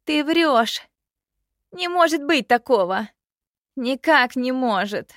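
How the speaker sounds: high, loud disbelieving cry; shocked protest. Acted. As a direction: refuse to believe it, loudly. Princess refuses shocking news.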